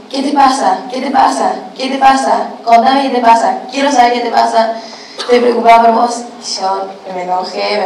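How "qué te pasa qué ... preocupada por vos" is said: higher-pitched mock pestering chorus; raised, repetitive pestering, retold; insistent questioning. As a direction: imitate everyone nagging with worried questions. Everyone pestering her with questions.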